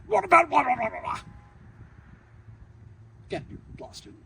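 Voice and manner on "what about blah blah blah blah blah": loud, higher, dismissive blah-blah jab; mocking professor. Professor mocking the student's vague answer, dismissive and loud. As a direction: brush the answer off with a sneer.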